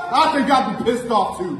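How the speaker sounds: high, laughing sneer; laughing taunt. Acted.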